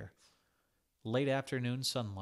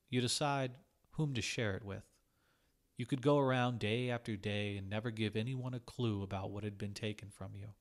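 plain reading voice

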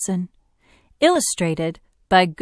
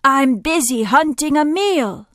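loud, higher-pitched vulture voice; swooping vulture; 7 semitones higher, 5 dB louder than usual. A narrator's reading. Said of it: "said the swooping vulture".

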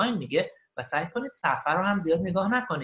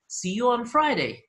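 slow, raised, louder teaching delivery; slow model phrase; 6 semitones higher, 6 dB louder, much slower than usual. Shown as a demonstration. Teacher models a goodbye for learners, slow and clear.

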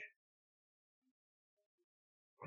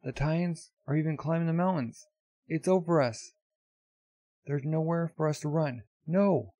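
raised, higher voice of dismay; acted alarm; 5 semitones higher than usual. Villagers seeing no escape from Titans, acted alarm. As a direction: cry out as a trapped villager.

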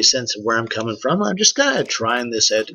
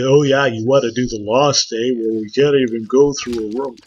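mock Canadian sarcasm; 4 dB louder than usual. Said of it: "It's kind of like a, a Canadian sarcasm".

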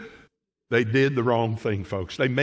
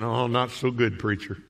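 gloomy reply; 4 semitones lower than usual. Acted. Churchgoer answering the preacher's greeting, mild mock gloom. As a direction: play a downcast churchgoer grumbling to the pastor.

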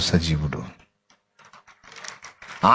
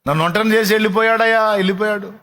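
retold weeping plea; 6 semitones higher than usual. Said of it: "ఎందుకు ఏడుస్తున్నావు?".

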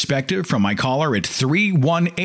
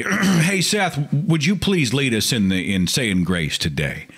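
mock relative; 3 semitones higher, slower than usual. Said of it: "put them on the spot and say".

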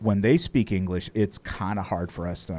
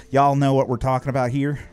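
slightly louder, higher Southern drawl; 4 semitones higher, 4 dB louder than usual. Shown as a demonstration. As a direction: lay on a Texas-style Southern drawl. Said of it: "what they call a Southern drawl".

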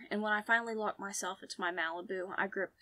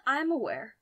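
put-on higher, louder line in a light French accent; Francis's French accent; 5 semitones higher, 8 dB louder than usual. A narrator's reading. Man at the cafe table answers, French accent. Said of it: "That French accent".

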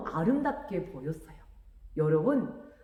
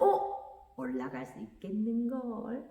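놀라며 드는 생각; 5 dB quieter than usual. A narrator's reading. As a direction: think aloud with sudden hope. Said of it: "이렇게 생각하고요". (깜짝 놀란 혼잣말)

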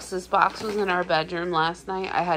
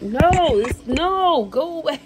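higher, louder shooing the cat; half-joking higher scolding; firm no; 9 semitones higher, 5 dB louder, slower than usual. Retold or imitated. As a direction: push the cat off, raised and firm. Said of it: "I'm like".

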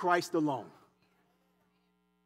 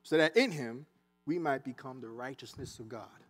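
simple gentle witness; 5 semitones lower, 7 dB quieter than usual. Pretend. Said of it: "We could simply say".

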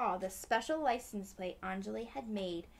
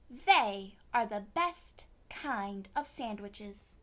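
proud quip; 2 semitones lower, 6 dB louder, slower than usual. Acted. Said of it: "she quipped".

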